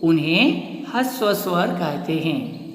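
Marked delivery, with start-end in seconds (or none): 0.0-0.7 drawn out, each word slow; slow teaching emphasis. Shown as a demonstration. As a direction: spell it out slowly for the class. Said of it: "जिन स्वरों को". (धीमे, ज़ोर देकर)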